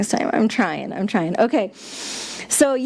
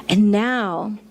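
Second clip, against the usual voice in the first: gentle guiding meditation voice; guided meditation. Acted. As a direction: ease them inward, unhurried. Leads a mini meditation.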